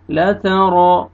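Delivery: "तरा" with a full, heavy R; rounded, weighty "रा" ending "तरा". Shown as a demonstration. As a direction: thicken the R in "ला तरा". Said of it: "रॉ को मोटा करके पढ़ना है".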